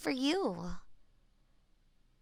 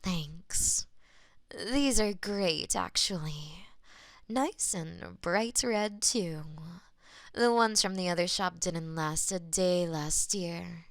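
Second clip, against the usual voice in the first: customer voice; 4 semitones lower than usual. Acted.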